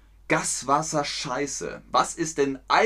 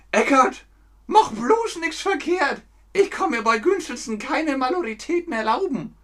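higher, slowed comic master voice; nervous master; 12 semitones higher, 4 dB louder than usual. Retold or imitated. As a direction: plead with the apprentice in a fussy voice. Master's quoted film line.

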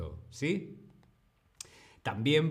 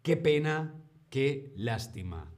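sympathetic pity. Shown as a demonstration. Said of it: "reaccionar ... diciendo".

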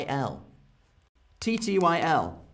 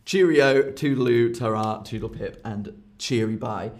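playful goodbyes; 2 semitones lower than usual. Shown as a demonstration. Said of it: "These are not very serious".

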